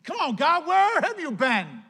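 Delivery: exasperated reproach thrown upward; complaining believer. Retold or imitated. Mock complaint to God.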